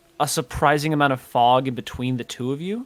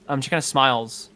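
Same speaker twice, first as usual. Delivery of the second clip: normal talking voice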